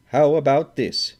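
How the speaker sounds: loud, high, furious; wrathful. A narrator's reading. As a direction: spit it at the gambler. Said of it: "he said wrathfully".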